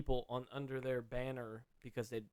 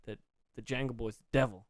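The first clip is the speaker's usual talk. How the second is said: Waterboy-style Southern voice; 2 semitones lower, 4 dB quieter than usual. Acted. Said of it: "Kathy Bates from The Water Boy".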